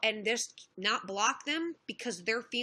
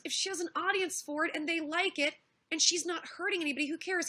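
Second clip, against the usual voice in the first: higher-pitched, insistent defence; retold dismissiveness; 5 semitones higher than usual. Streamer retelling Bering defending her to critics, dismissive. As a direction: argue her case as he did, pitched up. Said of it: "that was his attitude".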